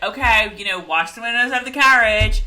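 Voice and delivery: a hint of a fatherly order. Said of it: "When Jamie's like".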